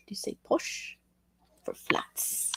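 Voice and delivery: soft whispered question. Real, not acted. Streamer whispering a question to UK viewers. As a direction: ask it in a hush. Asking quietly about posh.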